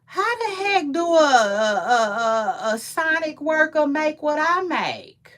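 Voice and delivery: mock outrage. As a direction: squeal it like an offended snob. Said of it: "If you got time to be like".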